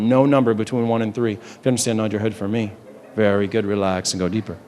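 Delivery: stage hypnotist easing someone into trance; hypnotic suggestion. Real, not acted.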